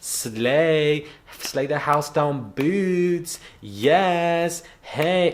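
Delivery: mock a guy hyping up black girls; lightly camp cheerleader parody; imitating gushy slay talk.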